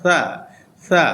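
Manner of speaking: সা with air through the middle of the tongue; breathy soft সা. Shown as a demonstration. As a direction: articulation demo. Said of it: "জিহ্বার মাঝখান দিয়ে বাতাস".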